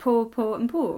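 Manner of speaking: RP accent. Shown as a demonstration. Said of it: "those are all exactly the same".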